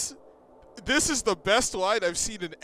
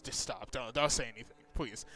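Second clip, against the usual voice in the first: quiet pleading; 6 semitones lower, 7 dB quieter than usual. Acted. Character begs friend to stop.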